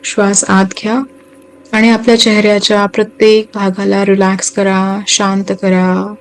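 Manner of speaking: unhurried meditation guide, long pauses between phrases; guided meditation. Acted. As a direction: guide listeners gently into relaxation, phrase by phrase.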